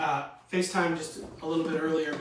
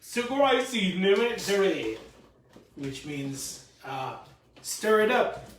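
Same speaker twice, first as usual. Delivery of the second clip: Swedish Chef voice; 4 semitones higher, 3 dB louder, slower than usual. Retold or imitated. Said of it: "Swedish Chef".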